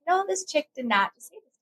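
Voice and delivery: high, fast, laughing disbelief; indignant disbelief. Retold or imitated. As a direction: play the outraged sister, half laughing. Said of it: "and I was like".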